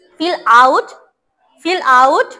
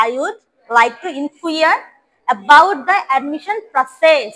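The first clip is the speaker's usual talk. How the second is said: very slow, clear drill; slow model reading; much slower than usual. Shown as a demonstration. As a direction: spell it out word by word for the class. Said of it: "আবার first থেকে বলো". (ধীরে ধীরে স্পষ্ট করে বলা)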